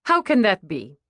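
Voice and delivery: mildly scoffing question. Acted. Waitress challenges the mother's boast, mildly scoffing. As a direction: question it with a touch of disbelief. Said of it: "Stacy scoffed".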